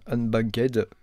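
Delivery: French speaker's try at an English accent; English accent attempt. Real, not acted. Vlogger joking about his super English accent, French-accented English. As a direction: say "Unbanked" in a rough, French-tinged English accent. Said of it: "avec mon super accent".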